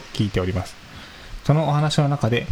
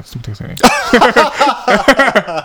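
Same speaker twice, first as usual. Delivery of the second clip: flustered stall; 11 semitones higher, 8 dB louder, slower than usual. Real, not acted. Flustered, figuring out the map.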